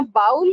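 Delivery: "bowl" as BAUL; "bowl" with an OW vowel; wrong pronunciation. Shown as a demonstration. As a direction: make "bowl" rhyme with howl. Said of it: "No, it's not bowl".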